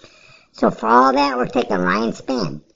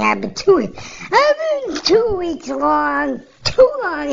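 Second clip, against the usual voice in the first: lightly mocked Krylov's accent, higher and slow; a hint of Krylov's accent, stretched and raised; 10 semitones higher, slower than usual. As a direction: drag out Krylov's accent on the long vowels. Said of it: "in his, you know, his accent".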